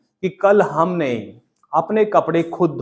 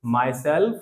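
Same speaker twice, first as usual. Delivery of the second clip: slow model phrase; 4 dB quieter, much slower than usual. Shown as a demonstration. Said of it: "I will".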